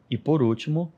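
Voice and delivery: ordinary talk, nothing marked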